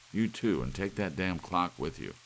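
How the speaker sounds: furious shout. Acted. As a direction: turn on the wife in rage. Husband throws out wife.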